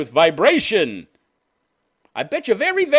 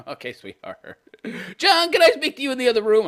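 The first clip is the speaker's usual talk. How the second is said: worried parent; 9 semitones higher, 3 dB louder than usual. Retold or imitated. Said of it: "Somebody in her family would have said".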